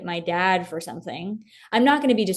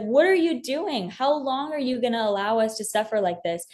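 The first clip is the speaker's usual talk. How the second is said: mock yelling at God; 4 semitones higher than usual. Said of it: "I felt like yelling at him".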